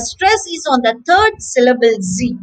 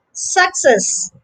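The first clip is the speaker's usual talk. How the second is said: Success with the weight on CESS; careful "Success", stressed at the end; stress on second syllable; 3 semitones higher than usual. Shown as a demonstration. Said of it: "the stress is on the second syllable".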